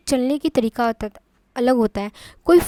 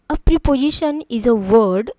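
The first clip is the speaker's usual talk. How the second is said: slow definition read; 6 dB louder, much slower than usual. Shown as a demonstration. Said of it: "teacher reads definition slowly".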